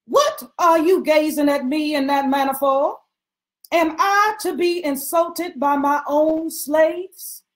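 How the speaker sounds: affronted mistress, pitch up, slowing on the second question; indignant outburst. Acted. Mistress scolding her servant, indignant. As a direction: demand an answer, offended.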